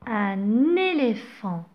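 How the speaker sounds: un éléphant with the n carried over: un-néléphant; liaison. Shown as a demonstration. Teacher to pupils, modelling the liaison slowly. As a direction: link the n of un onto éléphant. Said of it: "Je fais la liaison".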